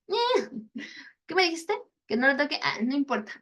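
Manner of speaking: high mock-cheeky kid, shrugging it off; defiant boy. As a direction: play a cheeky boy who ignores his mother. Defiant boy voiced in story.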